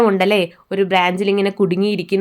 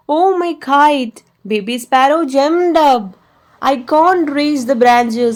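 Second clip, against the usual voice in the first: a hint of a sad little sparrow, higher and slow; teacher voicing the baby sparrow's lament, mildly plaintive; lightly voiced baby bird; 4 semitones higher, much slower than usual. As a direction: read the sparrow's cry a bit higher, mildly upset.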